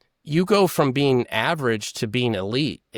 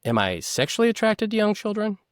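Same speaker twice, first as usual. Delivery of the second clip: higher, incredulous echo of the question; Sandusky re-asking; 9 semitones higher than usual. Retold or imitated. Sandusky echoing Costas to buy time, higher and incredulous. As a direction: repeat it back high to stall. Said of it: "buys himself time".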